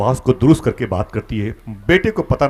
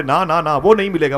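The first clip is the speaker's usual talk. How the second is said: loud, higher repeated no; emphatic no; 6 semitones higher, 7 dB louder than usual. Retold or imitated. Stranger telling the traveller, loud firm refusal. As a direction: wave it off firmly. Someone says he won't be found.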